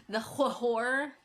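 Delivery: stretched, stuttered "whore" with the wh sounded apart; mock accent. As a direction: draw out "whore" slowly in a put-on accent. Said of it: "there's accent".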